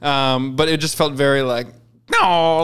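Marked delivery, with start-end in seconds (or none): 2.1-2.6 mildly hammed-up stage cry; a touch of mock melodrama; cheesy stage acting. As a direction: imitate a corny musical actor. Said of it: "cheesy on-stage acting, it was, it was that".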